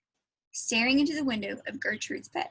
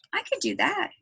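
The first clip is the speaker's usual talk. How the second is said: whispering; 6 semitones higher than usual. Acted. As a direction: hush it out hopefully. Girl pleads for the job.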